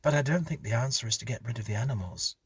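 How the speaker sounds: hurried wife. Acted. Wife disagreeing with husband.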